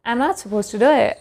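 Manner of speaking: American accent, the T's dropped at word ends. Shown as a demonstration. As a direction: say it the American way, swallowing each final T. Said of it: "But in American accent, they will say". (American accent में, आख़िरी टी गिराकर)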